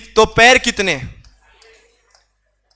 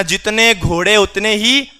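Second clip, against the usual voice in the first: slow emphasis. Shown as a demonstration. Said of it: "यानी इतना याद रखना".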